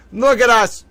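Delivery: high, loud delighted cry; thrilled. Real, not acted. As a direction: squeal with joy at the screen. Thrilled at the emoji.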